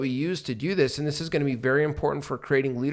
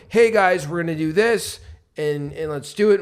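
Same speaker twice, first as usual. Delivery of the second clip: upbeat leader call; 2 semitones higher, 4 dB louder than usual. Retold or imitated. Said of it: "if I'm going".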